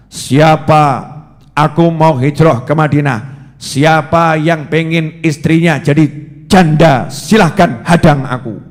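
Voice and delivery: bold, booming challenge to all Mecca; loud challenge. Retold or imitated. Umar shouting his dare across Mecca, bold and loud. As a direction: call out the dare like a fearless warrior. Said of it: "Terus teriak dengan lantang".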